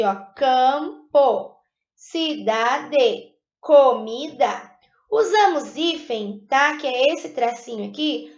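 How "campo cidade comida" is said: Campo, cidade, comida said slowly, syllable by syllable; syllable demo. Shown as a demonstration. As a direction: sound each word out for the class. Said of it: "Prestem atenção aqui".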